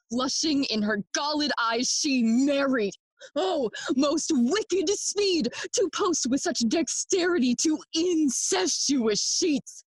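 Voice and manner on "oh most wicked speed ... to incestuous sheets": higher-pitched, indignant outburst; outraged. Acted. Son condemning his mother's hasty remarriage, outraged. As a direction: rail against it in disgust.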